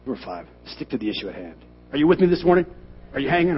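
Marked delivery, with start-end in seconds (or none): 1.9-3.6 loud, high call to the crowd; rally the congregation, loud and high. Real, not acted. Preacher calling out to the congregation, loud and high.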